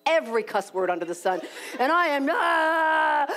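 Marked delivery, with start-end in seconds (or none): 1.8-3.3 choked up. Retold or imitated. Breaking down, pacing alone.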